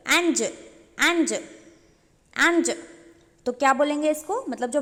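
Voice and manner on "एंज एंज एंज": "एंज" stretched very slowly; drawn-out syllable. Shown as a demonstration. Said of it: "एंजल". ("एंज" को बहुत धीरे खींचकर)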